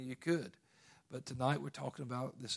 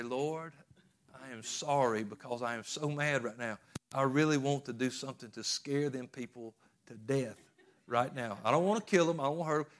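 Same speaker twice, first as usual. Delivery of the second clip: confessional prayer; 4 dB louder than usual. Retold or imitated. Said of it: "sit there and say".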